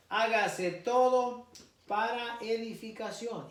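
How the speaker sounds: slow, deliberate listing from the verse; scripture reading. Acted. Preacher reading church order to the congregation, deliberate and emphatic. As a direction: space out each item, then stretch the final command. Reads scripture list aloud.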